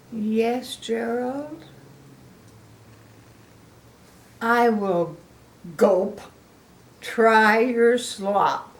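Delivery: slow, unwilling, with a swallowed gulp; reluctant elephant. Acted. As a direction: drag out each word like you dread it. Piggy offers, Gerald reluctant.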